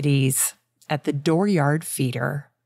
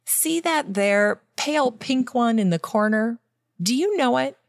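higher, eager questioning voice; urgent and eager; 7 semitones higher than usual. A narrator's reading. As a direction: press him eagerly for an answer. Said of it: "called the botanist urgently".

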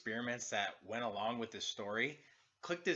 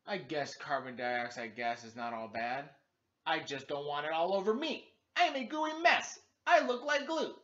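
goat voice rising to a squeal; 3 semitones higher, 4 dB louder than usual. Acted. Gary Goat complaining to Gilbert about the mess, rising to a squeal. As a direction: start grumpy, then squeal about the mess. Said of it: "Gary Goat said".

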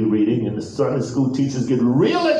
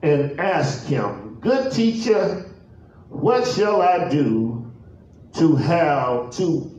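measured, deliberate pulpit reading; solemn, stretched-out Bible reading; scripture reading; slower than usual. Real, not acted. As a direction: read the verse out with long pauses between phrases. Reads scripture aloud.

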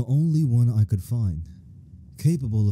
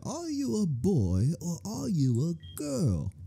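slow, softer imitation of the old ad voice; 6 semitones higher, 6 dB quieter, slower than usual. Mimicking the Wizard 101 ad for old-school viewers, slow and soft. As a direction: drawl it out like a cheesy ad narrator. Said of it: "that one Wizard one oh one ad".

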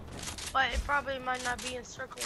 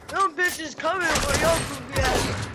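laughing; 2 semitones higher, 6 dB louder than usual. Real, not acted. Teasing friend while laughing.

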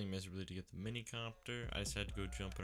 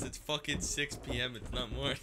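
imitating Kron; 3 semitones higher, 8 dB louder than usual. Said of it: "And Kron goes".

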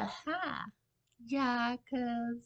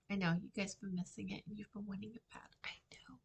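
playful whisper; 3 dB quieter, much faster than usual. Real, not acted. Teasing viewers before story time.

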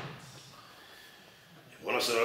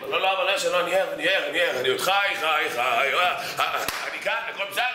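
hurried, higher voice insisting he's awake; flustered denial; 4 semitones higher than usual. Retold or imitated. A student woken at 2am flustered, insisting he's awake. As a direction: sound startled awake and protesting.

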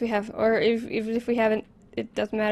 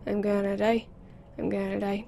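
panic fading; faster than usual. Real, not acted. Player escapes the attack, panic fading to a mutter. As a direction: repeat it, calming down bit by bit.

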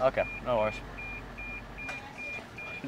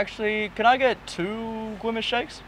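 slow, softer put-on w-for-r voice; Widowy voice; 2 semitones higher, 6 dB quieter than usual. Customer changing the drive-through order, Widowy voice. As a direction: keep up the silly voice, slowly. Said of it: "Put on your voice now".

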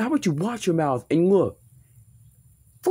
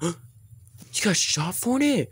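gasping shock; 2 semitones higher, much slower than usual. Acted. Shocked reaction to news.

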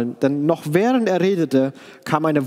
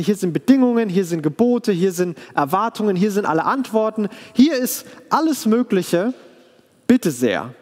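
mock salesman; 5 semitones higher than usual. Mock offer, rising excitement.

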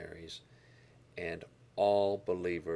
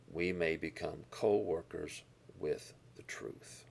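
slow whisper of "we may become co-workers with the truth"; whispered verse. Real, not acted. Pastor whispering the verse's promise to his listeners. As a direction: breathe the words as a hushed secret. Quoting verse as key point.

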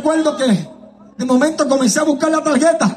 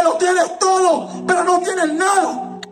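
devil's taunt; 3 semitones higher, slower than usual. Retold or imitated. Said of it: "A decirme".

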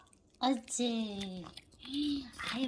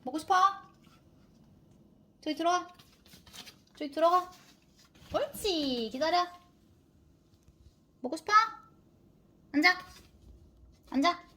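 high-pitched dog talk; 7 semitones higher, 12 dB louder, much faster than usual. Real, not acted.

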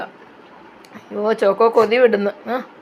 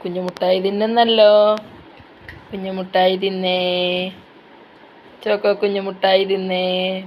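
teasing singsong; 3 semitones lower than usual. Real, not acted. Teasing the pet while eating candy.

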